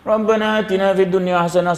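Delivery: half-hearted prayer. Pretend. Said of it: "sambil duk tengok cicak".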